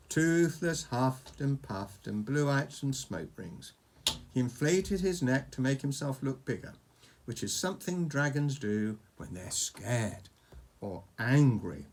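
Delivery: measured bedtime-story narration; story read to a child. A narrator's reading. Reading a dragon story to Oscar, storytelling. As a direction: tell it like an adventure tale, phrase by phrase.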